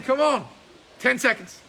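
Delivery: loud encouragement. Real, not acted. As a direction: push him through the last seconds. Coach urging tired student on.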